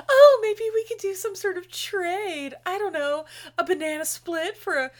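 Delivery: mock seductive. Woman in lingerie proposing a trade, mock-flirty and drawn out. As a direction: lightly play a flirtatious temptress, taking your time.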